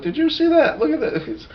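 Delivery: high, soft put-on voice; awed onlookers. Acts out onlookers at the wall.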